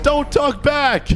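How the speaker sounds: high, slow scolding; yelling teacher. Retold or imitated. Strict teacher silencing student who explains, mock yelling. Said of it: "Bro just yells the whole time".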